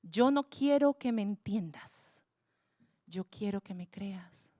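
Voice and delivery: slow, sinking to a whisper; quiet voice of God. Retold or imitated. God answering the preacher, slow and fading into a whisper. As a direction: let God's answer fall hushed and slow. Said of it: "Y Él me dijo".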